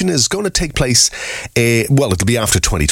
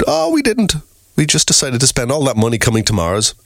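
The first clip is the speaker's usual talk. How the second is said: lightly squeaky, much higher; mock high voice; 7 semitones higher than usual. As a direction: pitch it up like a sheepish excuse. Mock astronauts answering alien.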